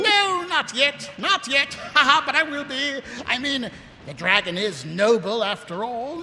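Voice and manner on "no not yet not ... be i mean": giddy laughing. Acted. Vimes answering Ramkin, giddy laughing. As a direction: giggle through it.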